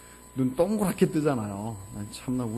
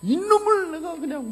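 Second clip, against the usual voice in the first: high, loud retold fury; angry outburst; 9 dB louder than usual. Father wanting to scold his defiant son, high angry outburst. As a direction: burst out as an exasperated father. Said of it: "막 이러고 막 화를 내서".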